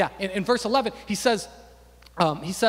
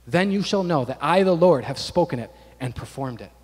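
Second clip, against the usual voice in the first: scripture reading; 4 dB louder than usual. Real, not acted. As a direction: read it out as God's solemn promise. Reads scripture aloud.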